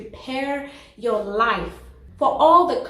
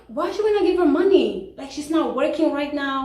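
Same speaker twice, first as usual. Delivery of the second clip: higher, louder disbelieving question; incredulous people; 4 semitones higher, 3 dB louder than usual. Retold or imitated. People asking why not give money, higher and louder in disbelief. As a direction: pitch it up in disbelief. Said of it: "And the people are like".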